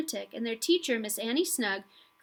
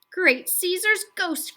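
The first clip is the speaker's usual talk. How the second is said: loud, slow, startled exclamation; cried out; 9 semitones higher, 6 dB louder, slower than usual. A narrator's reading. Teacher stunned by the swan's wings cries out loud. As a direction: cry it out in amazement. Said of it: "cried the teacher".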